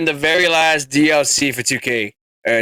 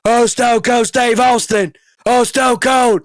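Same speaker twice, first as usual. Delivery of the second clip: mock crowd cheer; 4 semitones higher, slower than usual. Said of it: "doesn't go over as much as the".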